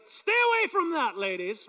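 high, loud territorial warning; wife's loud warning. Retold or imitated. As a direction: call it out sharply, claiming him. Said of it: "she's like".

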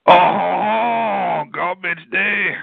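put-on high, slow Cajun-chef-style accent on garbage day. Repeating the movie quote in a Cajun chef accent. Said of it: "sounds almost like that Cajun chef".

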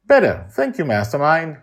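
put-on very high, loud child voice; tired kid says thanks; little girl voice. Joy's voice.

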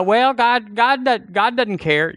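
high-pitched mock complaint to God; mock doubter. Preacher mimics a doubter talking to God, high mock voice. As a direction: whine it like a doubter brushing God off. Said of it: "You go".

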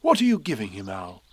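lightly voiced storybook bear; Pooh. A narrator's reading. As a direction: ask simply, close to a storyteller's own voice. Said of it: "said Pooh".

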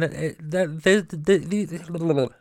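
stuck on the th sound, repeating; real stutter, words catching. Real, not acted. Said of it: "I have a stutter".

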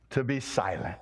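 hushed whisper of the crowd. Acted. Preacher reading the crowd's rebuke, whispering to be silent. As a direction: breathe it out as a hush.

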